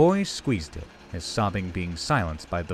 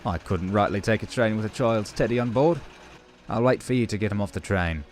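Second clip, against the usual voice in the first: smiling diesel; 2 semitones higher than usual. A narrator's reading. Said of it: "and the diesel smiled".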